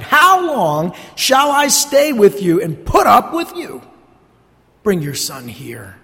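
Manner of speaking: frustrated. Acted. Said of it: "You see the frustration in Jesus' voice?".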